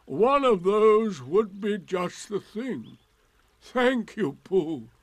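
mock-grateful and emphatic; sarcastic Eeyore. A narrator's reading. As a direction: thank them with heavy sarcasm. Eeyore answers Pooh with sarcasm.

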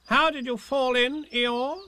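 lightly voiced fussy rabbit. Rabbit asks Eeyore.

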